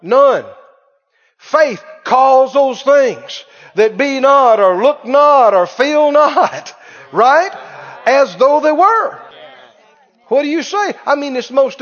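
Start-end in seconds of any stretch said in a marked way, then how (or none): 0.0-9.2 slow, loud, hammered preaching; preacher pressing the point hard; emphatic preaching. Acted. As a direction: punch each phrase slowly. Preaching at full force.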